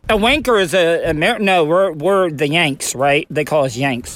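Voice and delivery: talking around a lip of chew; dip in lip. Real, not acted. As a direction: mouth full of dip tobacco. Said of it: "I have a dip in my mouth during this interview".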